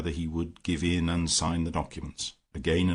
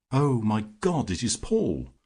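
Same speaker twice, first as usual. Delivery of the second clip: startled cry as she sees her brother; sudden shocked cry; 4 semitones higher than usual. Acted. Woman suddenly recognises her brother.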